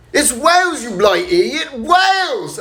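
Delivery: indignant outburst in a mock Scottish accent, pitched high. Drunk lady at the bar correcting a stranger, indignant Scottish accent. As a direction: snap back loudly in a put-on Scottish accent. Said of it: "they had a Scottish accent".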